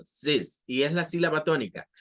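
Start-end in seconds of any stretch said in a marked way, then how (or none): 0.0-0.6 "ziz" said quickly with a short i; one brief "ziz" with a buzzed ending; very short syllable. Shown as a demonstration. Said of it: "esto se dice muy rápido".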